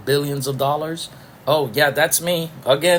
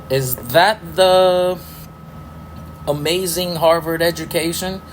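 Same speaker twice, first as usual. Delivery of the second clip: higher, slow mocking question; sarcastic drawl; 4 semitones higher than usual. Real, not acted. Ranting vlogger mocks de Blasio's Harvard schooling, slow sarcastic sneer.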